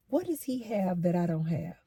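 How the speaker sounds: soft, subdued retold question; quietly hurt. Man confronting the woman about his rival, quietly hurt. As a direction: ask it quietly, holding the upset in. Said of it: "he's getting real upset".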